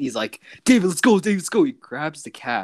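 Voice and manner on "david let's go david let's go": high mock urgent voice of Zeke. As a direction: squeak it out like a hurried friend. Retelling Zeke urging him away.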